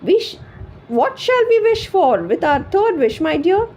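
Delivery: high, loud tearful lament; tearful wife. A narrator's reading. Weeping wife lamenting to her husband, high and tearful. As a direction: lament through tears. Wife crying over the sausage.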